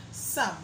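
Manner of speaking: Some with full vowel; strong form. Shown as a demonstration. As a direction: say Some fully. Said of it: "pronounced some as the strong form".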